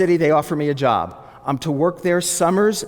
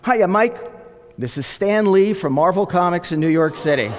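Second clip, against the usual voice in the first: exuberant voice; 2 semitones higher than usual. Retold or imitated. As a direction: greet like a delighted showman. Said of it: "this exuberant male voice".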